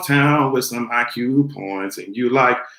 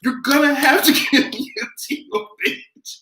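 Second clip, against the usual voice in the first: mock demanding diva; 4 semitones higher than usual. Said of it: "I'll be saying".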